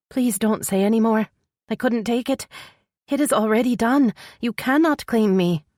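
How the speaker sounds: anguished, high-pitched refusal; pleading heroine. Acted. Voices tearful heroine refusing him.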